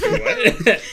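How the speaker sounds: high, laughing disbelief; shocked, cracking up; startled laughing question; surprised what. Real, not acted. Surprised by the story.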